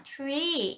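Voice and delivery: 트리 with the t sliding toward ch; ch-like tree. Shown as a demonstration. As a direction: say 트리 between t and ch. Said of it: "티귿이랑 치읓 사이로 들려요". (트리, 티귿과 치읓 사이)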